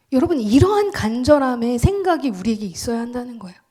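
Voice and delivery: ordinary talk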